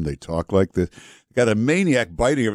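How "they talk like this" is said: lightly voiced pilot, lower and even; a hint of a calm airline pilot. Radio host showing how pilots talk, calm. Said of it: "these pilots stay so calm".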